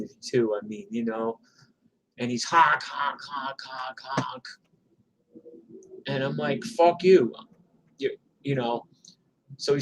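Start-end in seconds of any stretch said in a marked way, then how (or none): 2.4-4.4 imitated car horn. Driver tailgating a bike messenger, imitated honking. 6.6-7.3 higher, louder mock-angry comeback; defiant retort. Cyclist answering a honking Porsche driver, defiant.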